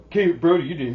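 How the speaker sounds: mild mock scoff; sarcastic son. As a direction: throw it back sarcastically.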